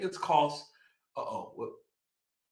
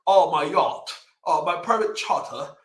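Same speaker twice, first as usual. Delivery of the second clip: mock posh accent. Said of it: "where did this accent come from".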